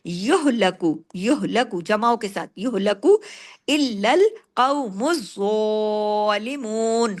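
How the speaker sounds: युहलकु इल्लल कौमुज ज़ालिमून very slow with heavy काफ and ज़ा; slow tajweed reading; slow recitation. Shown as a demonstration. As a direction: draw ज़ालिमून out, heavy letters thick. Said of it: "काफ heavy".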